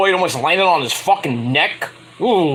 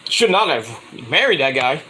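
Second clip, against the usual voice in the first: Flair woo. Retold or imitated. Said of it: "I'll be like".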